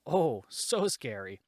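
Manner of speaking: slow, drawn-out mock awe; sarcastic fake fear. Real, not acted. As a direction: drag it out, totally unimpressed. Mocking the tree trunk scare.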